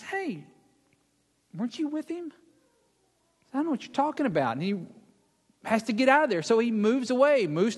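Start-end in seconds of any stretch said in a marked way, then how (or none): 0.0-2.3 higher, softer lightly voiced servant girl; a soft, high, prying question. Servant girl spotting Peter by the fire, lightly voiced question. 3.5-4.6 quick, higher-pitched brush-off; hurried denial. Acted. Peter brushing off the servant girl, hurried denial.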